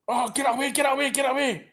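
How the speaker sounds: will the ball away in panic; nervous fan begging the ball clear; anxious pleading. Real, not acted. Nervous fan as Celtic attack.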